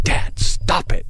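a slow, breathy, mortified plea to dad; a breathy, barely voiced "Dad, stop it"; embarrassed daughter. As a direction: play the teenage daughter who wants to vanish. Daughter humiliated, begging dad.

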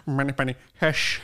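Sean Connery. Retold or imitated. Co-host echoes her attempt, lightly low mock Scottish. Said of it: "your best Sean Connery".

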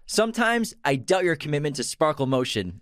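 stern coach quote. Acted. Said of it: "Donnie Darko".

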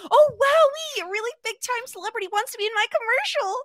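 high, fast, gushing with excitement; excited gushing. Retold or imitated. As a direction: squeal it out like a starstruck fan. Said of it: "going to Annie and like".

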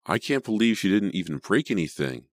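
mildly incredulous exclamation; exclaiming. A narrator's reading. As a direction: exclaim it in amazed relief. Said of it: "Sydney exclaimed for about the tenth time".

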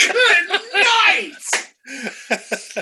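squeaky high sing-song good night; high mock chirp. Mocking director's commentary line.

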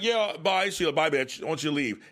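mock Quinn, waving her off with glee; mock gleeful dismissal. Quinn gleefully telling Sheila to get out.

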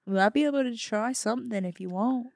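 put-on amateur Australian tourist accent. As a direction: put on a loose Aussie accent. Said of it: "do an Australian accent".

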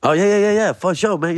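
high, quick yeses; eager backpedal. Retold or imitated. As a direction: agree fast to smooth it over. Eager agreeing after rebuff.

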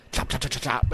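quick, unvoiced chop-chop sounds; imitated chopping. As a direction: mimic the rapid chopping under your breath. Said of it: "It was just funny the way he did it".

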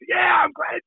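high, drawn-out fan cheer; mock cheering. Fans cheering when he got drilled, mock gleeful. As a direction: imitate a gleeful crowd cheer.

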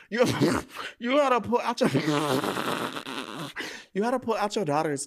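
can't get it out for laughing. Real, not acted. Laughing through the line.

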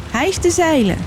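high, ringing command; shouted order. A narrator's reading. Captain calls to his crew to raise anchor, shouting. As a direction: call it out across the deck. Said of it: "riep hij".

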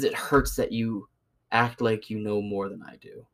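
slow, drawn-out mock whine of a hurt man. Mocking the older coworker's hurt feelings, slow and whiny. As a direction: drag it out like a wounded, sulky old man. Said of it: "He says".

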